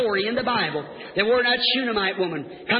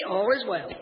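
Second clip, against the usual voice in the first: lower, falling reply; the woman's lower-pitched answer; settled answer; 4 semitones lower, 3 dB quieter than usual. Acted. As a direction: bring it down to a calm close.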